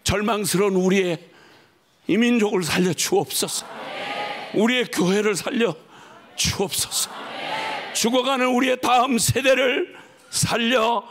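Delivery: pleading prayer building and fading; fervent prayer. Acted. Pastor praying aloud for the nations, fervent plea.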